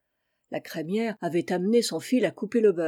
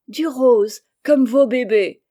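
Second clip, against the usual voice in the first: put-on higher, louder, quavering old-lady voice; a smiling old granny offers pink wool, quavering; 4 semitones higher, 7 dB louder than usual. A narrator's reading. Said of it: "chevrota une mémé souriante".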